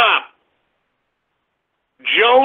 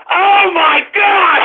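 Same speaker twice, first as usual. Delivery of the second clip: slow, drawn-out Oh my God, higher and loud; exasperated shout; 5 semitones higher, 3 dB louder, slower than usual. Real, not acted. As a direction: bellow it out in disbelief. Exasperated outburst at donations.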